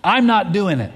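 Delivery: put-on sudden high yelled stop, a kid panicking; a scared child's shriek, then a firm refusal; retold scream. Dad retelling his son shrieking stop at the zip line edge, high yell. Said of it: "Nicholas screams again".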